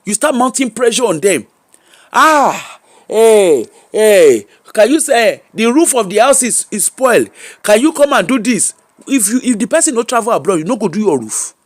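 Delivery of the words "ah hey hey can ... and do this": demanding relatives. Acted. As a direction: lightly act out relatives piling on pressure. Relatives abroad pressured for money.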